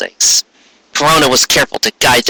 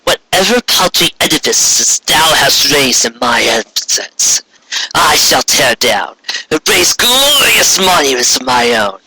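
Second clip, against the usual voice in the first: vengeful queen vowing; 4 semitones higher than usual. Acted. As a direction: swear to erase her legacy. Corona's grand threat.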